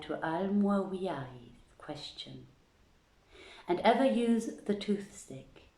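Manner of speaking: measured, formal storytelling read; steady storyteller's voice for an old fable; story narration. Acted. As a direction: read it like an old court tale, unhurried. Reading old tale aloud.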